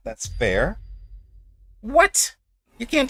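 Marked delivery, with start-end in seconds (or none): 1.8-3.1 high, loud shocked "What?"; outraged disbelief, pitch shooting up; surprised. Real, not acted. Opponent blinds his new units.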